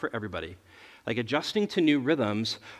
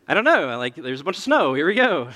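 laughing; 2 semitones higher, 6 dB louder than usual. Real, not acted. Dumping potty in snow.

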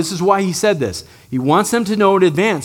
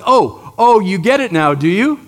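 mocking oh, oh, a bit louder; sarcastic; 3 dB louder than usual. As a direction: tease them with dry sarcasm. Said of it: "there's a hint of sarcasm".

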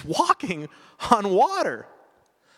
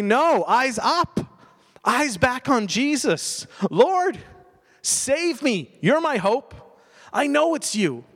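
rising, earnest plea to the Lord, slower at first; pleading prayer; 4 semitones higher than usual. Pretend. Believer crying out to Jesus in the storm, pleading. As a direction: cry out for rescue with full trust. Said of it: "And so we say".

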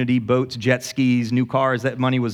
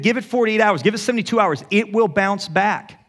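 confident insistence; 6 semitones higher than usual. Retold or imitated. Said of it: "I said".

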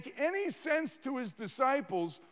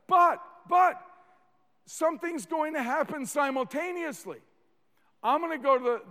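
rising preaching burst; 5 semitones higher, 5 dB louder, faster than usual. Real, not acted.

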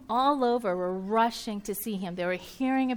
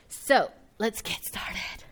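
spooky hush; much slower than usual. Real, not acted. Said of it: "that kinda sounded scary".

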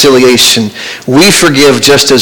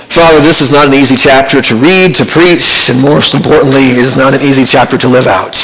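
prayer. Acted. Pastor begins closing prayer.

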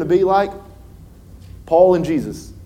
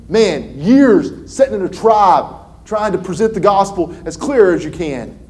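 higher, louder preacher call; fiery preaching; 8 semitones higher, 6 dB louder than usual. Acted. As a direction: press the point on the crowd. Preaching at full force.

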